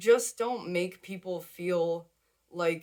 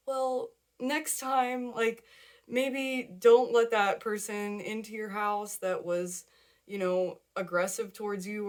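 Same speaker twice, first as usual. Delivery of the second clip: soft, sweet advice; 3 semitones higher than usual. Pretend. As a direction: ease the advice out like comforting a child. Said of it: "in the most soft, sweet".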